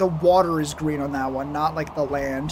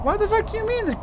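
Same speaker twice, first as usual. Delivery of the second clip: shrieking high, furious outburst; berserk rage; faster than usual. Real, not acted. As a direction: explode in real fury. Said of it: "recording failed, rage".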